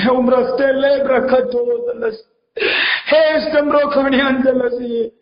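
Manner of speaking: extremely slow tongues with a sob; praying in tongues. Real, not acted. Pastor weeping in tongues during intercession, very slow. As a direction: draw each word out, near tears.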